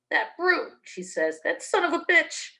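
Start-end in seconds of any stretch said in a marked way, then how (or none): 0.1-0.8 higher, wounded whine; wife cursing her husband; whiny abused wife. Acted. Wife complains about husband. 1.4-2.5 higher, wounded whine; wife cursing her husband; whiny abused wife. Acted.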